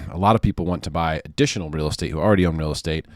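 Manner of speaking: talking with something in mouth; words round something in the mouth; mouth full. Real, not acted. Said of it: "sorry, I got something in my mouth".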